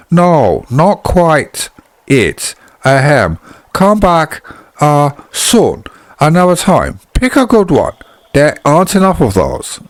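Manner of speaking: a light, high put-on lady voice, not quite an accent; high lady's voice. Narrator redoing the abbess's line in a high put-on voice.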